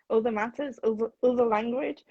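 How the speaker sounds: "other" opening on a rounded northern vowel; Yorkshire "other". Shown as a demonstration. Giving examples of the picked-up accent, Yorkshire "oother" for "other". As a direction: make each "other" sound like "oother". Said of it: "I very frequently say other".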